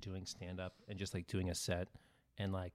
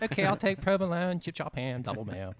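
Pittsburgh man ordering; 6 semitones higher than usual. Retold or imitated. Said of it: "He's like".

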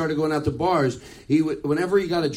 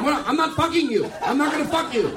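pitched-up mocking girl voice; squeaky mock outrage; high mock girly reply; 7 semitones higher than usual. Girls' imagined reply.

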